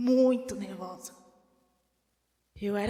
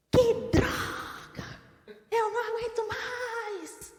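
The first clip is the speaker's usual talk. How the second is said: frustrated outburst; 10 semitones higher than usual. Retold or imitated. Preacher imitating a fed-up believer, high mock exasperation.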